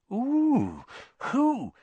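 high-pitched, gossip-hungry curiosity; keen. A narrator's reading. Parvati asks about Hermione's date, keenly. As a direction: pounce eagerly on the gossip. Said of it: "she said keenly".

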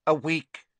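high, cold, curt voice; icy cold. A narrator's reading. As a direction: clip it coldly and high. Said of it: "said the cold voice".

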